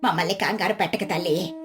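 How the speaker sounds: put-on low-pitched older neighbour, uneasy; flustered. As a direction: scold lightly to cover the worry. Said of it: "Gangamma కంగారుగా".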